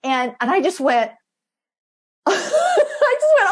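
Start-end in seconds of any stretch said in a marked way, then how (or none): 2.2-3.5 laughing. Real, not acted. Retelling reaction with laughter.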